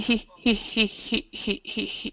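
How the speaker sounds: soft, breathy whispered stutter, stuck on "he". Explaining how a nephew talks when frustrated, imitating a stutter. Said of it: "he stutters ... what he does is he goes".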